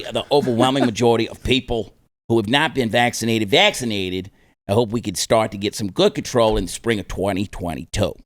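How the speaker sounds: lightly voiced Fauci in a weak New York accent; bad New York accent. Host reading Fauci's quote to cohosts, mild New York accent. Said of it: "That's a really bad New York accent".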